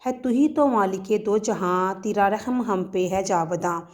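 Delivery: slow, measured poem reading with lilting rhythm; poetic recitation. Shown as a demonstration. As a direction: recite it like a poem, letting each line flow. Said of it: "میں شاعری کے انداز سے پڑھوں".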